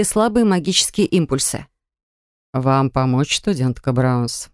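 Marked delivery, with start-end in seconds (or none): 2.5-4.5 low, slow ominous rector; sinister whisper. A narrator's reading. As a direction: lower voice, menacingly close. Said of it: "От зловещего шёпота".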